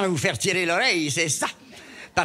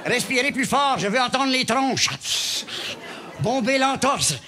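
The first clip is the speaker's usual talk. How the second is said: doctor barking orders; 6 semitones higher than usual. Acted.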